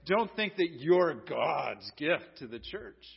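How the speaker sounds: low, unhurried dig; sarcastic phrase. Acted. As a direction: draw it out with light sarcasm. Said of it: "I say that in that sort of American phrase".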